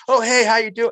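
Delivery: high, loud and bright hello; cheerful greeting. Retold or imitated. Shy coworker now greeting the speaker, loud and high cheerful hello. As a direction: greet him like your best mate.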